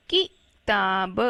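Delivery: किताब slowly sounded out as ki, taa, ba; slow teacher's sounding-out of किताब, syllable by syllable; syllable-by-syllable reading. Shown as a demonstration. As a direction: read किताब in separate syllables with a short ki. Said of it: "इसको ऐसा नहीं बोलना".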